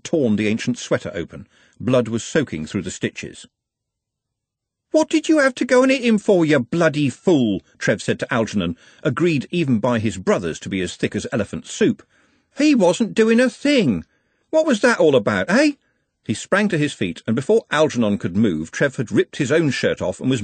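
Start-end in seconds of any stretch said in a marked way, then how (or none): 4.9-7.6 high, loud, furious scolding; raging. A narrator's reading. Trev berating the man who hit his friend, raging. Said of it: "with Trev's rage baking his face". 12.6-15.7 high-pitched, indignant shouting; raging. A narrator's reading. Trev confronting his friend's attacker, raging. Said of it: "with Trev's rage baking his face".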